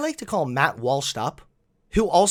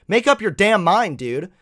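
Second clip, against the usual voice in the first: louder, higher, fed-up outburst; exasperated outburst; 5 semitones higher, 6 dB louder than usual. Real, not acted. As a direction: throw up your hands, exasperated.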